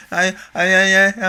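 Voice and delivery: put-on high-pitched stammering little kid; imitated mumbling kid. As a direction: mimic a caught child, stuttering up high. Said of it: "just mumbling, like".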